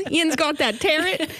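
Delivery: Pittsburgh accent. Shown as a demonstration. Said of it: "I'm from Pittsburgh, P A. I say tarot".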